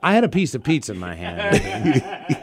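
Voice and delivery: can't keep a straight face telling it; laughing. Real, not acted. Co-host cracking up while telling a Vegas bathroom story, laughing through the words.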